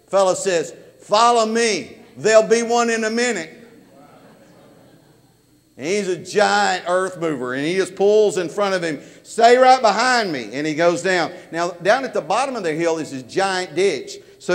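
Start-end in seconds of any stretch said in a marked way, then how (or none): 1.0-3.5 calling out. Retold or imitated. Worker calls out to the officer. 9.2-10.5 higher and louder, shouted over an engine; loud call to follow close; shouted order. Retold or imitated. Worker shouting instructions over the machine.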